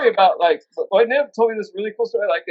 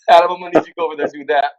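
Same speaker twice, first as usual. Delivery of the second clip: quick orders; 4 semitones lower, much faster than usual. Retold or imitated. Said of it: "Lloyd giving orders".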